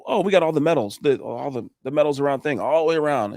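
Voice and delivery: imitating a pleased, boastful homeowner; lightly mimicked bragging; proud homeowner. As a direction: list it off with retold pride. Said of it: "he's so proud".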